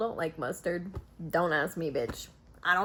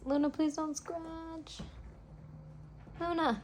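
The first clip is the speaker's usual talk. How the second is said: pet voice; 9 semitones higher than usual. Real, not acted. Talking to her cat.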